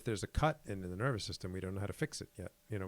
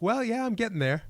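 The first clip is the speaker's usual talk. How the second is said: higher, louder, laughing through it; laughing retort; 12 semitones higher, 8 dB louder than usual. Retold or imitated. Retelling his own reply to a coworker, laughing. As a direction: chuckle the comeback.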